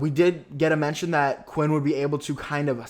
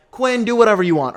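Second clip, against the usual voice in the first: louder, daring Quinn to try; defiant call-out; 7 semitones higher, 9 dB louder than usual. Real, not acted. Viewer daring Quinn, loud defiant call-out. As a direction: throw it at him loud and careless.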